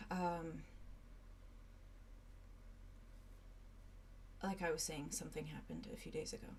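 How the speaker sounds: low hushed secret; whispered confession. Acted. Silas confiding in Arlo alone, hushed whisper. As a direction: keep it down, just between us.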